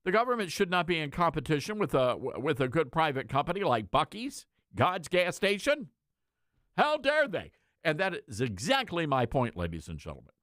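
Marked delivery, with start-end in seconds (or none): 0.0-7.5 mock objector. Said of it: "many of you would be saying".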